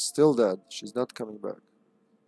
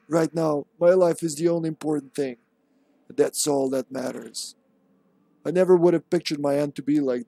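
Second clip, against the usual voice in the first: lightly dramatised memo writer; a touch of doomed-man character voice; Dario. Acted. Gamer reading a doomed man's memo aloud, lightly in character. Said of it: "That's kind of Dario's voice".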